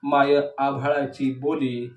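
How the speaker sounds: even, measured verse reading; declaimed poetry with small pauses between half-lines; poem recitation. Acted. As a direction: recite each image as its own phrase. Recites third poem aloud.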